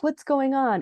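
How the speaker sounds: high puzzled retelling; puzzled question. Retold or imitated. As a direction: lightly imitate someone baffled by the commotion. Jenny arrives puzzled by accusation.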